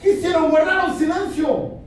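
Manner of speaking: high, loud pulpit cry; full-force preaching. Real, not acted. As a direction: hammer the point home at the top of the voice.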